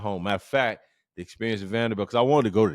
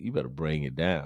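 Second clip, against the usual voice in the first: ordinary talk, nothing marked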